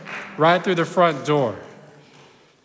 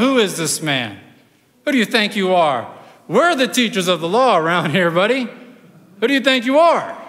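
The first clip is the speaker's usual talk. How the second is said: acted affront, rising at the end; indignant challenge. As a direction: put him in his place, mildly hammed-up. Acts out Pharisees challenging Jesus.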